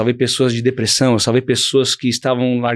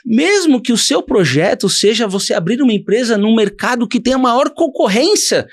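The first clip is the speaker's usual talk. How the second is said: preaching bishop; 4 semitones higher than usual. Retold or imitated. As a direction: urge them on like a bishop from the pulpit. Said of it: "você falava alguma coisa assim".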